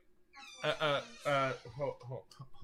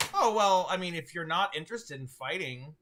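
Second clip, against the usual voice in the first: a hint of a scheming devil offering a deal; 3 semitones higher than usual. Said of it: "and he goes".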